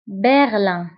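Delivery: برلين as French ber-lan, nasal ending; French-style برلين with uvular r and nasal vowel; French pronunciation. Shown as a demonstration. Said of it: "بالفرنسية أيضًا".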